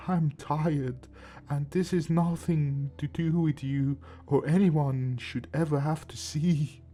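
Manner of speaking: tender grandfatherly goodbye; gentle, loving, a bit slow; warm and affectionate. Acted. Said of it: "with all the warmth and affection he could muster".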